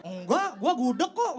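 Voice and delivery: mock reply through laughter; a laughing, playful comeback; laughing retort. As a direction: answer back while laughing.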